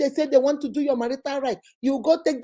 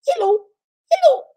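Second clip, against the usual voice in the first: high, loud mock American hello; mock American accent; 14 semitones higher, 6 dB louder than usual. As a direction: ham up a fake American accent on the phone. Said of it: "they now speak like the Americans".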